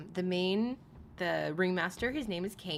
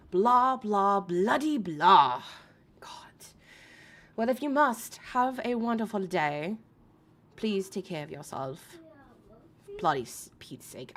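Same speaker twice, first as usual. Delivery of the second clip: hammed-up British accent with a loud blah, blah; a terrible British accent, self-mocking; bad British accent; 2 semitones higher, 4 dB louder than usual. Rebecca's request answered in a bad British accent. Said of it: "I have a terrible accent".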